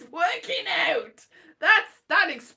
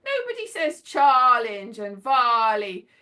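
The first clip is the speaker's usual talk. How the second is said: exasperated; 7 dB louder than usual. Real, not acted. Exasperated rant.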